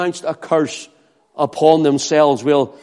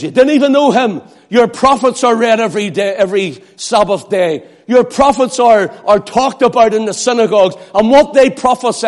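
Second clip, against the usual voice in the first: stern rebuke; 4 semitones higher than usual. Acted. Paul rebuking the people of Jerusalem, fast stern accusing. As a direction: accuse them like a prophet. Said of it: "And he says".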